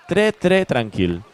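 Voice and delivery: put-on light French accent. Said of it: "I love your French accent".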